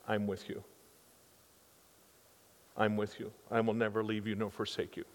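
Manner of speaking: low, soft reassuring promise; gentle reassurance. Acted. Preacher voicing God's promise to the listeners, gentle reassurance.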